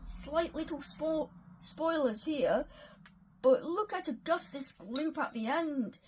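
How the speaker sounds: put-on rough go at an Australian accent; attempted Australian accent. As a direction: have a shot at sounding Australian. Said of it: "trying to do an Australian accent".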